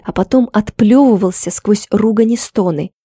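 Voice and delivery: plain reading voice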